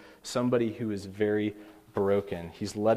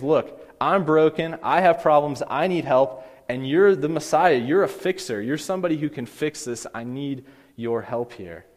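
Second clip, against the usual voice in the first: desperate plea; 3 semitones higher, 4 dB louder than usual. Retold or imitated. Preacher voices the mother begging the Messiah for help, mildly desperate. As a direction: voice an insistent appeal, mildly acted. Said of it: "She's desperate".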